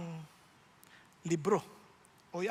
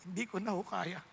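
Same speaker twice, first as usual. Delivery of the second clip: retold tearful prayer; 5 dB quieter than usual. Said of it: "Iyak ako sa Diyos".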